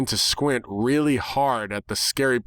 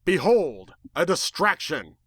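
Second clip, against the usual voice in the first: grand, raised proclamation; dramatic reveal; 7 semitones higher, slower than usual. A narrator's reading. The protagonist staging a dramatic reveal, grandly. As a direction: announce it like a showman.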